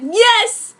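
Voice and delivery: loud, high hammed-up yell; mock shout. Bobby answering as he runs from Jared, hammed-up yell. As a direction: blurt it out at full volume.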